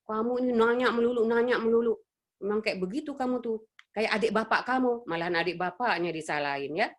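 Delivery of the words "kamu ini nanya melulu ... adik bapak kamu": lightly voiced irritated mother; nagging mother. Imitated mother scolding a questioning child, lightly irritated. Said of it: "Jangan begini, Bu".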